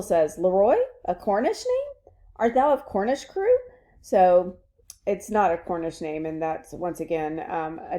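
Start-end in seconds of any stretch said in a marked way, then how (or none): 0.4-3.6 swaggering soldier voice. Acted. Teacher voices Pistol questioning.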